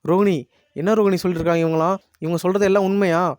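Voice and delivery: mildly menacing interrogation, rising in pitch; retold threatening questioning. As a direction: act out an angry demand for answers. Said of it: "மிரட்டி கேக்குறாங்க". (மிரட்டி கேக்குற மாதிரி)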